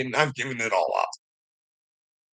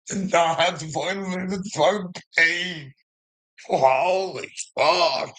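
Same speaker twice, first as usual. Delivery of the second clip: rising angry shout, much higher, pitch spiking at the end; furious rant; 5 semitones higher than usual. Real, not acted. Speaker ranting at complacent people, furious shout. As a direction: yell it at the people you despise.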